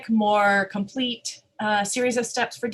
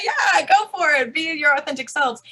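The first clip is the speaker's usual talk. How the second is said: higher, louder, slowed cheer; playful rallying send-off; mock pep talk; 4 semitones higher, 4 dB louder than usual. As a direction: cheer them on, half joking. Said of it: "send you back to your workplaces and say".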